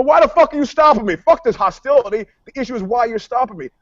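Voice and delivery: high, fast, heated retort; indignant outburst. Retold or imitated. Driver arguing with cops at a traffic stop, indignant. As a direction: argue back hotly, words tumbling out. Retold argument with police.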